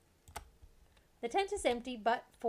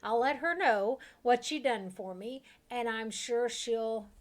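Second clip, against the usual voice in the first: a hint of Southern accent, eager cook voice; lightly Southern, urgent to get home; slight Southern accent; 2 semitones higher, 4 dB louder than usual. Freed cook urging the party to visit, slight Southern accent. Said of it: "natural Southern accent comes to your mouth".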